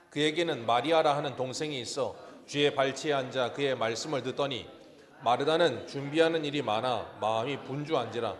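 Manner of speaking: steady, measured Bible reading to the congregation; a formal reading of Luke aloud; scripture reading. Acted. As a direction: read the verses out clearly and evenly. Reads scripture passage aloud.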